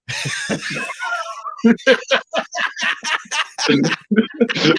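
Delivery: roaring laugh; big laugh. Real, not acted. Guest laughs at own story.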